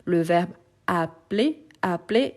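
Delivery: appeler said clearly as a-pe-ler with a single L sound; pronunciation demo. Shown as a demonstration. Teacher showing students how appeler sounds. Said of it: "c'est une question de prononciation".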